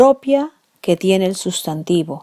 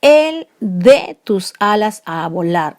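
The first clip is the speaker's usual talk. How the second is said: "El" stressed, slow, a touch louder; 3 dB louder than usual. Shown as a demonstration. Teacher reading a verse line, stressing "El". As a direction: lean on "El" as the pronoun, slowly. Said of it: "Ese él con tilde".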